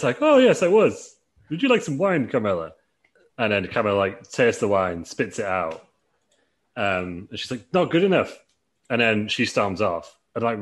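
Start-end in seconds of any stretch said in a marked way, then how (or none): 0.2-2.7 high, hammed-up butler offering wine; posh Reginald voice. Reginald offers Kamala wine in a high, hammed-up voice. 7.7-8.4 haughty dismissal. Retold or imitated. Kamala voiced rejecting the wine.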